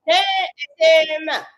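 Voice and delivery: stretched out slow and loud, falling at the end; slow take. Shown as a demonstration. Rehearsing a lyric take, slowed right down. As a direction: drag each word out slowly. Repeating the line in takes.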